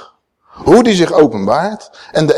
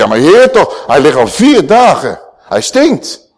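a raised, incredulous protest; disciples protesting; 5 dB louder than usual. Retold or imitated. Disciples protest to Jesus at the tomb, rising in disbelief. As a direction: push back in disbelief, voice climbing.

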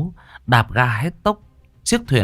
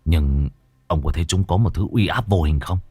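low voice; 5 semitones lower than usual. Acted. Vinh argues with inner voice.

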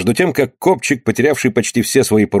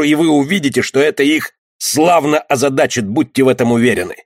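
stern command; 4 semitones higher than usual. Acted. Captain giving stern orders.

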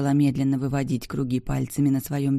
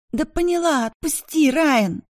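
very high, louder desperate plea; frightened plea; 12 semitones higher, 4 dB louder than usual. A narrator's reading. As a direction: gasp out a plea to be released. Bianca choked, pleading. (испуганно, очень высоко)

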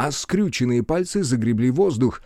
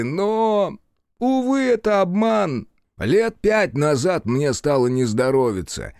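fawning trickster voice; 2 semitones higher than usual. Acted. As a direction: sell the sad story eagerly. Trickster tells his tale. (заискивающий рассказ)

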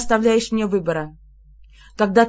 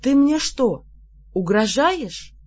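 genuinely puzzled; 5 semitones higher, slower than usual. A narrator's reading. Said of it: "неподдельно озадачилась я".

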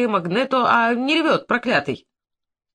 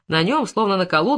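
plain reading voice

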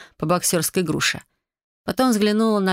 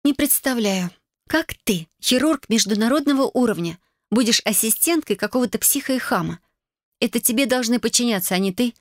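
higher, indignant sister voice; grumbling younger sister; 5 semitones higher than usual. Acted. Sister grumbling about the boss.

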